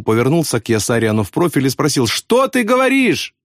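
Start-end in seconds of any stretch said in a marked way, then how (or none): 2.1-3.3 cheerful question. A narrator's reading. Friend cupping ear, asking.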